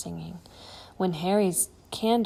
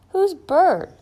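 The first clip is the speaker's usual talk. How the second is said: very high, loud startled ask; boy hearing of an unknown friend; surprised question; 11 semitones higher, 10 dB louder than usual. Acted. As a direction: squeal it in disbelief.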